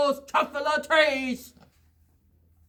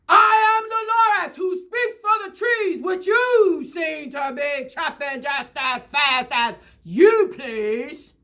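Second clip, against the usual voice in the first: snapping Lorax. Acted. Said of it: "He snapped".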